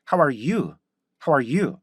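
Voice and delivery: "How are you?" with weight on one word, then falling; English greeting stress. Shown as a demonstration. Teacher models another version for learners, rhythmic "How are you?". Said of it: "이렇게 할게요".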